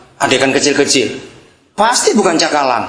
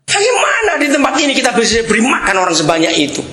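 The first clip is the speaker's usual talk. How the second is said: baffled disciples; 7 semitones higher, faster than usual. Acted. Disciples' baffled question acted out.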